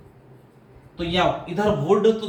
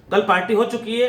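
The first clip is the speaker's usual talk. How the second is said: repeated higher and louder to drive it home; emphatic repeat; 6 semitones higher, 5 dB louder than usual. Shown as a demonstration. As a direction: hammer the point home, raised and loud. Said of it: "teacher repeats for emphasis".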